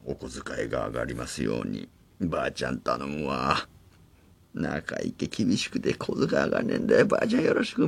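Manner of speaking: put-on hushed childhood wish. Childhood wish at grandma's grave.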